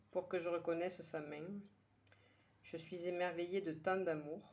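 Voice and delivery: measured verse reading with pauses between lines; poem recitation. Acted. Poet sharing today's poem with her listeners, measured recitation. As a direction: recite it line by line, letting each one settle. Reads the poem a third time.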